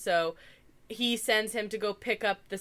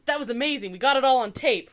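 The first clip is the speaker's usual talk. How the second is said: higher, louder imitation of thrilled paparazzi; mock excited; 5 semitones higher, 8 dB louder, faster than usual. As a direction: gush it like a delighted onlooker being imitated. Retold paparazzi's gleeful reaction.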